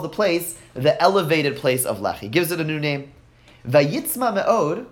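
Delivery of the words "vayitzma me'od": slow reading. Shown as a demonstration. Teacher reading the verse slowly.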